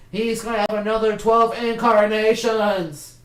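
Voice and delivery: loud, slow outburst; excited shout. Real, not acted. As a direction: blurt it out, stretched and loud. Mock outrage at reboot.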